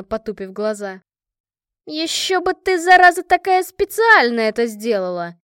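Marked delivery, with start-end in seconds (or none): 1.8-5.4 loud, high indignant burst; threatening. A narrator's reading. Машка threatens Лика over the forgotten gift, indignant. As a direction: snap back hard, as if shaking a fist. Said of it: "Машка погрозила кулаком".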